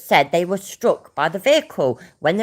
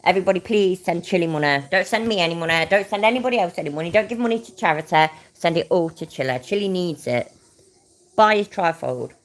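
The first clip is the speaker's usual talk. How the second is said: higher, sing-out sarcastic appeal; mock pleading; 4 semitones higher than usual. Streamer parodying a plea to send Chili money, mock pleading. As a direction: reel off the fake plea, pitched up.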